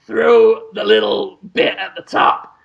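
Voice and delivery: slow, drawn-out movie-star impression; lightly put-on voice, stretching out each step of the method; Willem Dafoe. Actor explains his cancer cure on a talk show, Willem Dafoe impression. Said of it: "Willem Dafoe impersonation".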